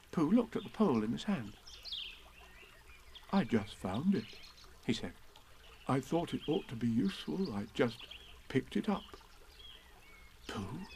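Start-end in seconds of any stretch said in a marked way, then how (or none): 3.3-9.0 modest Pooh. Acted. 10.5-10.9 softer, grave calling of a name; solemn. Acted. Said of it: "said Christopher Robin solemnly".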